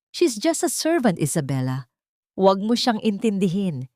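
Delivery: lightly voiced dismissive mistress. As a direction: wave her off with a forced lightness. Diana dismisses, forced laugh.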